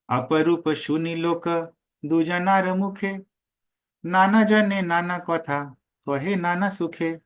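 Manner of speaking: slow, measured chanting of the Bengali verse; verse recitation. Acted. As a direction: intone each line slowly like scripture. (धीमा, लयबद्ध पद पाठ)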